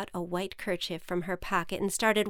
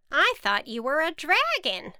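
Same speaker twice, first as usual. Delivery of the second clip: higher witch voice, taken aback; sheepish witch; 8 semitones higher, 4 dB louder than usual. Acted. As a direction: admit it to the farmer, a bit stunned. Witch to farmer.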